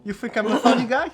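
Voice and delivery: menacing with a laugh behind it; Joe Pesci impression. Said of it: "Joe Pesci".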